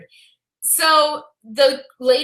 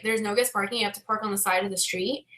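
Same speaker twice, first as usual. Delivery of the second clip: incredulous echo; 6 semitones lower, 10 dB quieter, faster than usual. Retold or imitated. Realtor's incredulous echo retold.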